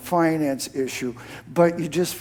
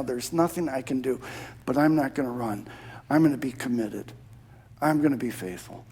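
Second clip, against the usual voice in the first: low, soft, halting resolve; subdued, committed prayer; 5 semitones lower, 5 dB quieter than usual. Retold or imitated. Preacher tells God he will not run, subdued prayer. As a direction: say it quietly, with pauses between vows.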